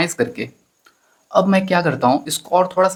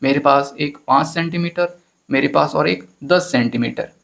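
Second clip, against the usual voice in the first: put-on long-winded girl. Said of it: "ऐसा लंबा लंबा बता रही है".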